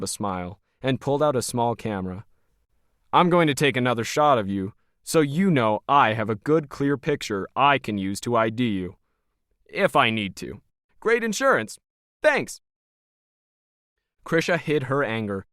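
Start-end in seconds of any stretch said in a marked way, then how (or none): 3.1-12.6 Logan, cold and smug. Acted. Smug Logan sizing up Krisha as hired help, lightly voiced.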